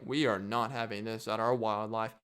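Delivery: a hint of stuffy British accent; mock British. British park staff refusing the parrots, mock British. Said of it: "the British people were like".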